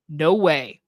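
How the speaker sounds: ordinary talk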